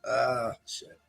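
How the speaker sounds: wincing laugh with sore ribs; laughing while it hurts; laughing through pain. Real, not acted. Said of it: "it hurts to laugh".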